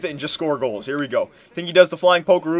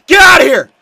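high, loud cry of frustration; long, high wail of exasperation; frustrated shouting; 13 semitones higher, 11 dB louder, slower than usual. Real, not acted. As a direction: yell out as the opponent dangles past you. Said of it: "Now I'm getting frustrated".

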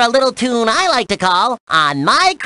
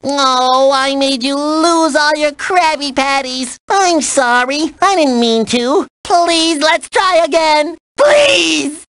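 apologetic pleading; 5 semitones higher, slower than usual. Acted. Apology and begging to try again.

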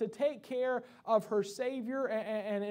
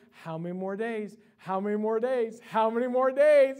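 put-on excited child counting days; 7 dB louder than usual. Son counting days to his birthday, mounting excitement. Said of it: "he's all excited".

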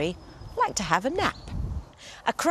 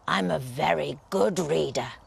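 lower, self-important wolf voice; wolf boast; 4 semitones lower than usual. Acted. Wolf brags to giant, lower and proud. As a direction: puff yourself up. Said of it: "growled the wolf importantly".

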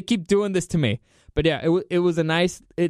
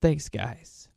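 lightly acted fond farewell; a touch of tenderness, slightly softer; understated fond goodbye; 3 semitones lower, 4 dB quieter than usual. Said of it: "He's looking fondly at them".

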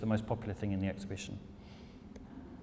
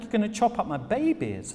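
much higher and louder, aghast; horrified Nancy; 11 semitones higher, 5 dB louder than usual. Retold or imitated. Nancy hearing her spoons will be cut up, horrified shriek. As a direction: shriek it like a mother defending her babies. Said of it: "she's like".

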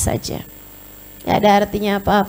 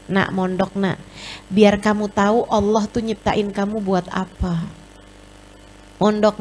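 gentle pleading mother. Acted. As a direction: coax the child like a loving mother. Preacher voices a mother pleading. (ibu membujuk anak dengan lembut)

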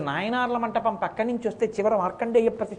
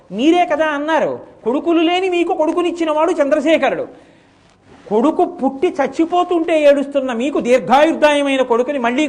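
higher, louder pleading son; earnest plea; 3 semitones higher, 7 dB louder than usual. Acted. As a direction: urge the father with rising fervour. Son pleads with weeping father. (తండ్రిని ఓదార్చుతూ ఉత్సాహంగా వేడుకునే కొడుకు)

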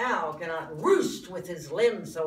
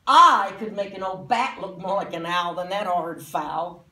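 scornful boast; 7 dB louder than usual. Acted. Critic scoffs at stuffed owl.

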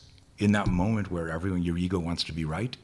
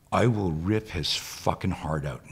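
slow, emphatic retold threat; retold angry threat. Woman in class threatening an imagined intruder, understated anger. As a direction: spell out the threat word by word, understated. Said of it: "women start screaming at me".

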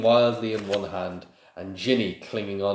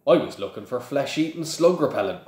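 lightly growled, higher and louder; a mild growling Hagrid; 5 semitones higher, 4 dB louder than usual. Acted. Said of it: "growled Hagrid".

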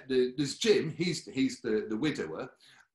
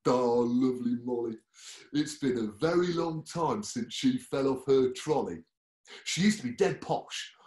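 louder, chatty colleague voice; nurse Dean; 5 dB louder than usual. Acted. Nurse Dean tells about Molly, louder and chatty. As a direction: gossip about a patient, a bit loud. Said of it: "I'll let Dean tell you".

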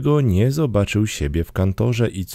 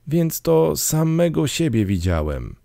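dismayed cry; 9 semitones higher than usual. A narrator's reading. Scrooge sees his own name on the tomb, mild dismayed cry. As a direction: cry out high in understated horror. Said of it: "zawołał, padając na kolana".

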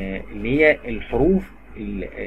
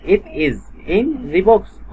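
slow model sentence; 4 semitones higher, much slower than usual. Shown as a demonstration. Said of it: "model sentence".

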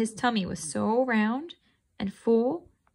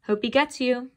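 spat out; 3 semitones higher, 3 dB louder than usual. Acted. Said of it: "I spit".

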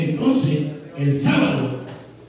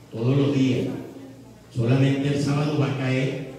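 normal talking voice

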